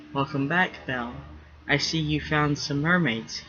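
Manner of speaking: wry tone. Acted. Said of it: "let a wry tone color".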